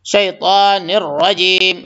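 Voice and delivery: شیطان with a crisp sh and heavy ta; clear shin. Shown as a demonstration. Teacher demonstrating shin and heavy ta in شیطان. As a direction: draw out شیطان, sh clear, ta full. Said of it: "شین کو نکالیں گے".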